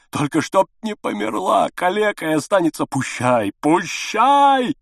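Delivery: high desperate cry; shouting to the ceiling. A narrator's reading. Father cries his plea to the ceiling, high and loud. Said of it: "кричал он в потолок".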